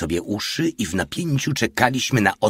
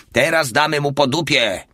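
higher, louder eager threat; gleeful; 7 semitones higher, 4 dB louder than usual. Acted. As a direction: relish the shot. Porta about to fire gun.

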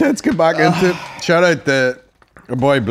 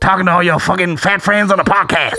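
mock stand-up rant; Dave Chappelle impression; 2 semitones higher than usual. Mother scolding son's podcast habit, mock stand-up rant. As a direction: complain like a comic mid-bit. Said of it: "with the Dave Chappelle voice".

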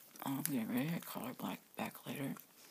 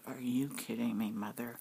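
disgusted; 5 semitones lower, 5 dB louder than usual. Retold or imitated. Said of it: "her voice drop like a hundred tones down like this".

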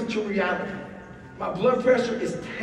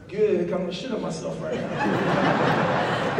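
laughing confession; 4 semitones lower, slower than usual. Retold or imitated. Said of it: "I go".

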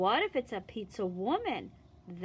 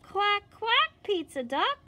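much higher, louder quack; quacking duck; 10 semitones higher, 6 dB louder than usual. Acted. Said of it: "What does a duck say".

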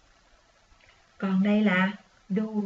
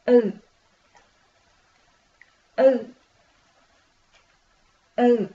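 model reading; 6 dB louder, slower than usual. Shown as a demonstration. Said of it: "Mình đọc nha".

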